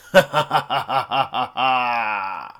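loud staccato evil laugh, last note stretched; villain laugh. Acted. Ending a challenge to rival podcast, loud villain laugh. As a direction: cackle in pulses, then hold it.

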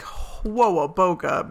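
slow drawn-out whoa boga, lightly voiced; a nod to Angry Beavers, stretched out; cartoon catchphrase. Host quoting a cartoon catchphrase to her co-host, drawn out. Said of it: "I also love that you used whoa, whoa, boga".

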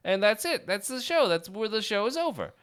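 loud, showman's sign-off; hammed-up emcee; announcer voice. Show host announcement.

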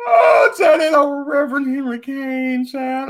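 shrieking laughter. Real, not acted. Vlogger losing it over the movie reverend, shrieking laughter.

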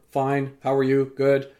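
imitating rote pleasantries; methodical, uninvolved counter chat; mechanical small talk. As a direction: reel off a routine exchange on autopilot. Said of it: "like, very mechanical and methodical".

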